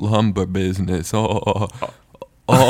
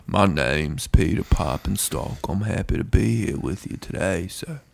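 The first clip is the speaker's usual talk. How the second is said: dad voice. Retold or imitated. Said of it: "My dad".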